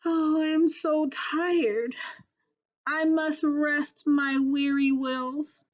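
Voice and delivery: weary sigh. Acted. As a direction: sigh it out like rusty old wheels. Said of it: "the rusty old engine sighed".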